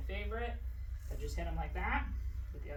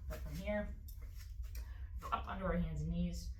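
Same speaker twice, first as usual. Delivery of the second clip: muffled speech with a hair tie in the mouth. Real, not acted. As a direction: talk muffled, mouth half covered. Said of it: "sorry if I'm muffled".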